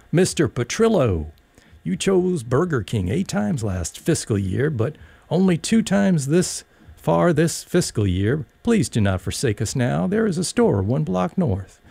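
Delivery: a hint of a stage star selling burgers; Elaine Weston voice. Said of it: "in the voice of Broadway star Elaine Weston".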